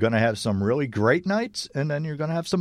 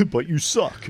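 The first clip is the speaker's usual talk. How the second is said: put-on Canadian accent; 3 semitones higher, slower than usual. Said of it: "pretty terrible Canadian accent".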